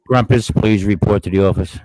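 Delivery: booming intercom page; over the intercom. Pretend.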